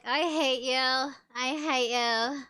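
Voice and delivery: bored, lifeless I hate you; flat mock reading. Shown as a demonstration. Mocking readers who say it with no feeling. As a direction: read it like you don't care at all. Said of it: "Some people just put more enthusiasm".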